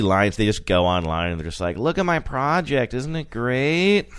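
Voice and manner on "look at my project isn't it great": high, slow show-off voice with a laugh; Thirsty Lion impression. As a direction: brag about your project, giggling. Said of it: "that was my Thirsty Lion impression".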